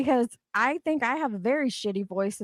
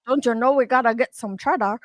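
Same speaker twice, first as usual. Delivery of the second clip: put-on Minnesota accent; 3 dB louder than usual. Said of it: "they have that".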